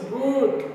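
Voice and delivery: GOOD with a long "oo"; prolonged O. Shown as a demonstration. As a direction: hold the vowel in GOOD to show the extension. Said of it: "like that".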